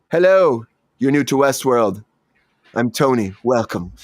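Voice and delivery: Anthony Hopkins. Retold or imitated. Actor turns to greet a newcomer on set, subdued and creepy. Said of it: "It was very more subdued".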